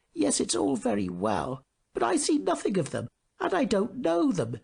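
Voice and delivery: pewter soldier. A narrator's reading. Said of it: "said the pewter soldier".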